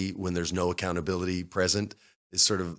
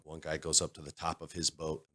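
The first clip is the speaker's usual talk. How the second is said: ordinary talk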